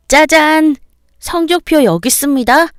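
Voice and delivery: put-on high, loud boy's voice showing off; a kid unveiling his report card with a flourish; proud ta-da. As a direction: son presenting his grades, high and excited. Son shows report card.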